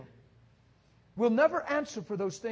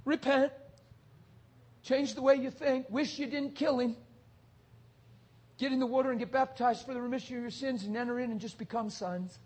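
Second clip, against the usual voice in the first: gentle Peter; 7 dB quieter than usual. Retold or imitated. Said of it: "guess what Peter said?".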